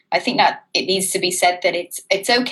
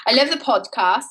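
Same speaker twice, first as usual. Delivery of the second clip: higher-pitched, put-on Welsh lilt; Welsh accent; 4 semitones higher than usual. Host restarts reading a listener's message in a Welsh accent. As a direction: attempt a subdued Welsh accent. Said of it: "Should I speak in a Welsh accent for this one".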